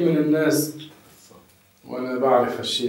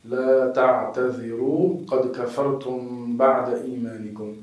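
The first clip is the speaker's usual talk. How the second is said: slow Quran quote; slower than usual. Shown as a demonstration. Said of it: "كما قال الله في القرآن".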